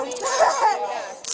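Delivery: real laugh of disbelief; disbelieving laugh. Real, not acted. Woman being taken to jail, disbelieving laugh. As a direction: laugh at the absurdity.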